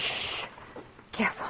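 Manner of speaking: soft, low shush of caution; quiet cautionary hush; hushed warning. Acted. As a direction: keep it down so August can't hear. Warning her maid, husband nearby.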